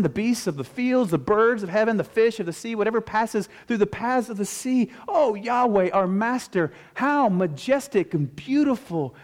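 high, fervent preaching voice; impassioned psalm recital. Acted. Preacher praying the psalm before the congregation, fervent recital. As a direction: lift the voice in wonder at God.

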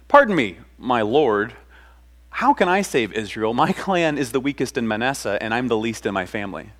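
retold deep-breath plea. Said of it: "takes a deep breath and says".

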